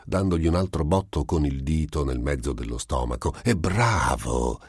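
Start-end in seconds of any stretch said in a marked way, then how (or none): 3.4-4.6 È bravo! lento, con È marcato; beffardo. Acted. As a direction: ripeti È bravo! lento e canzonatorio. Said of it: "gridò Iblis". (il diavolo ribadisce, lento e beffardo)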